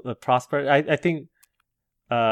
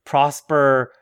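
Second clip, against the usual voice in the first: Yoda voice; 4 semitones higher, 4 dB louder, much slower than usual. Retold or imitated. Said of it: "but he would say".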